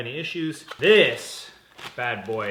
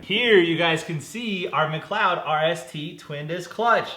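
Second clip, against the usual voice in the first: big, slow product reveal; grand presenter-style unveiling; showy retake; 5 semitones higher, 6 dB louder, slower than usual. Real, not acted. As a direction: present it louder and higher, drawn out. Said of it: "We'll try that again".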